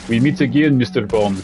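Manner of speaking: put-on lightly sketched Bond-villain Russian accent; hint at a film villain's Russian accent; movie Russian accent. Streamer imitates what auditions want, stereotyped Russian accent. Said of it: "kind of Russian accent".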